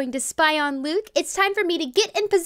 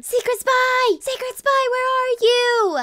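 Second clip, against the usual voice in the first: calling out; 5 semitones higher than usual. Pretend. Calling the spy over.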